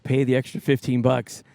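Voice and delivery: lightly imitated Finnish accent, slowing toward the end. Boxing coach's girlfriend urging paying for GPS, light Finnish accent. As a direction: put on a slight Finnish accent, drawing out the last words. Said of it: "said it with a Finnish accent".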